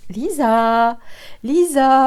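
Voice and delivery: lightly imitating a southern French accent, sung-out Lisa; a hint of a southern French accent on Lisa, Lisa. Sister calling her name: light southern French accent. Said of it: "avec sa jolie voix et son bel accent du sud".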